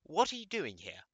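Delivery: high, loud startled question. Acted. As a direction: caught off guard by a visitor. Startled by the intruder.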